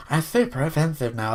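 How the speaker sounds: put-on whiny offended type; mock the easily offended in a silly voice. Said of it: "I don't know why I do that voice".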